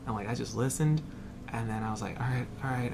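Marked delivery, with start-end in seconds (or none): 2.2-2.9 soft, half-whispered retold acceptance; holding back tears. Student accepting the provost's hard news, holding back tears. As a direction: quietly give in, as if choked up. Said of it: "I was just holding back tears".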